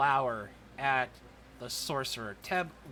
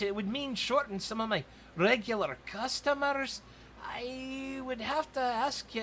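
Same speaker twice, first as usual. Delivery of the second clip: higher, fussy shopkeeper voice pricing a big order; baker NPC voice; 9 semitones higher, 3 dB louder than usual. Acted. Baker quoting the party a steep price, in a higher voice. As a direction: play the worried village baker, pitched up.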